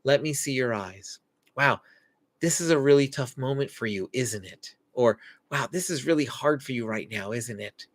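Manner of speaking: put-on calmly name the child's hard moment; soft connecting parent. Shown as a demonstration. Parent kneeling to an upset child, gentle and soft. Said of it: "we say simple things like".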